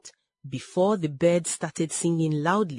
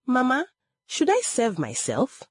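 gathering courage; 8 semitones higher than usual. A narrator's reading. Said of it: "she gathered courage".

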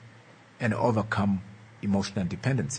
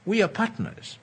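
voicing connection; 8 semitones higher than usual. Shown as a demonstration. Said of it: "emotional connections say".

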